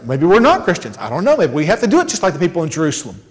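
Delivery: low, uncertain musing with pitch swoops; wondering aloud. Retold or imitated. Antioch believers doubting they are Christians, mock wondering. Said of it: "we're, like, wondering".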